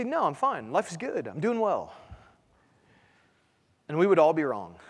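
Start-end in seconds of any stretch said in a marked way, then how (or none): 0.0-1.9 lightly acted "all is well", lilting and softer; mock breezy denial. Churchgoer asked at the door if in trouble, mock breezy denial. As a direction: imitate a polite, breezy brush-off. Acts churchgoers brushing off the question.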